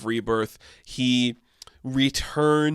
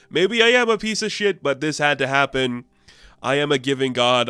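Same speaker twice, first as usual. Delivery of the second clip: haughty god; 3 semitones higher than usual. Retold or imitated. Osiris answering Layla's insult loftily. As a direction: shrug off the insult grandly.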